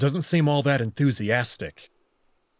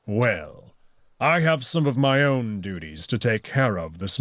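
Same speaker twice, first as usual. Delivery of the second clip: put-on stern old wolf. Old wolf orders Amicus.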